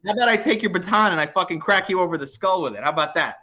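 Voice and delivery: aggravated. Retold or imitated. Aggravated driver threatening the cop with his own baton, retold. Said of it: "I'm starting to get a little aggravated".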